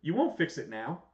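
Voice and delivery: hammed-up furious retort; mock angry Roman. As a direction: shout him down, getting angrier. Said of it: "And it's like".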